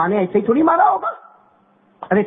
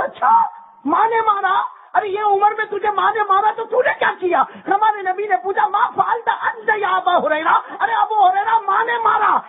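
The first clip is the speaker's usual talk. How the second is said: surprised questioning; 11 semitones higher than usual. Acted. The Prophet questions the grown man beaten by his mother, surprised. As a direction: test him with surprised questions.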